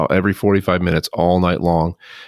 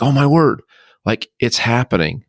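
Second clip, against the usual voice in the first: startled realization; 5 semitones higher than usual. Retold or imitated. Realizing death is near.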